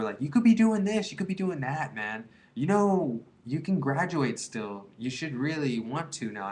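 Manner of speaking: a hint of a preachy stoner friend. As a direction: play the well-meaning buddy nagging him to quit. Sober friends lecturing him.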